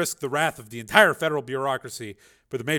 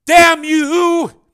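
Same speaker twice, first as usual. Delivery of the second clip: screamed, much higher and louder; furious shout; 16 dB louder than usual. A narrator's reading. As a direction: hurl the curse at the camera. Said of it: "he shouted".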